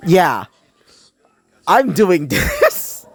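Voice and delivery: laughing. Real, not acted. Laughs at own roleplay.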